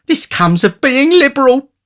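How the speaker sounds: high, self-pitying woman; Mrs Sowerby. A narrator's reading. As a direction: lament your own kindness.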